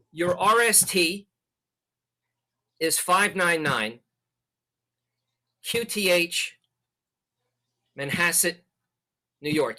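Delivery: deliberate, with long pauses between groups; measured dictation, one chunk at a time; slow, spaced out. Shown as a demonstration. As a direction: spell it out unhurriedly, leaving room after each piece. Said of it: "You can send like that".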